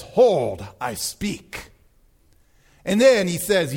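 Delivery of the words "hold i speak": God's command. Retold or imitated. God finally arriving to silence the people, low command. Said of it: "God finally comes and says".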